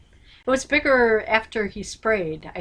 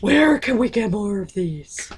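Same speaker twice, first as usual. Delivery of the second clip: pirate voice. Retold or imitated. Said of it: "you're talking like a pirate".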